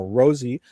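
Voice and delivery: Rosie said ROE-zee, like the flower; Rosie like the rose. Shown as a demonstration. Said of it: "Rosie's like the rose".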